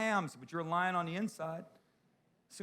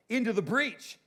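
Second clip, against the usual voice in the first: higher, louder battle cry; rallying call; 7 semitones higher, 5 dB louder than usual. Retold or imitated. Jesus sending the older woman to fight, rallying call. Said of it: "Jesus is like".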